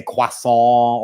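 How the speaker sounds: "croissant" as kwah-sohn, final t dropped; affected French pronunciation. Retold or imitated. Mocking Americans back from France, affected French croissant. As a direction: say croissant the French way, nasal ending. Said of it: "come back from France and they say".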